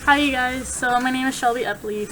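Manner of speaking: sick, congested voice; stuffy nose. Real, not acted. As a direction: talk through a blocked nose. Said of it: "so I sound awful".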